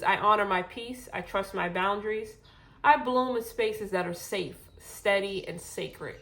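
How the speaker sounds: short of breath, gently winded. Real, not acted. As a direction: speak through lingering breathlessness. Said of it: "I'm still out of breath".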